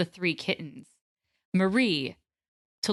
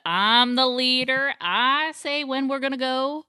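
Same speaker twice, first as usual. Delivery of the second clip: character impression; 4 semitones higher, 4 dB louder, slower than usual. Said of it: "I just love how he has the".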